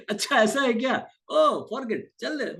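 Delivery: amused, high inner voice brushing off an insult; calm inner voice. Retold or imitated. Calm mind dismissing a drunk's abuse, amused. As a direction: shrug it off lightly, half laughing.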